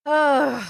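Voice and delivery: fed-up groan of exhaustion; exhausted groan. Real, not acted. Streamer worn out by the debate, exhausted groan. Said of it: "Exhausted. Exhausted, bro".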